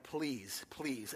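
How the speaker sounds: soft, low begging please; mock plea of a scared horse; mock pleading horse. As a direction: whimper it out as the fleeing horse. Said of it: "The horse gets up and is like".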